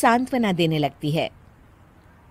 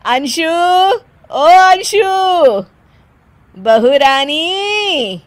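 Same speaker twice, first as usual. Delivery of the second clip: slow, louder call; 5 semitones higher, 4 dB louder, much slower than usual. Acted. Mother-in-law calling bride in, drawn-out call. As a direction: call her from another room.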